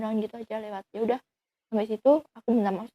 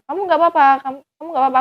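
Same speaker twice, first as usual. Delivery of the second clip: worried asking; 5 semitones higher, 6 dB louder, much faster than usual. Retold or imitated. Checking on injured boyfriend.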